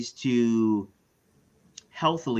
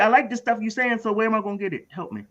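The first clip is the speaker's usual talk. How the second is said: much higher, streetwise struggling parent; parent character voice; 11 semitones higher, faster than usual. Retold or imitated. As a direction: restart the line fully in character. Role-playing parent asking counselor.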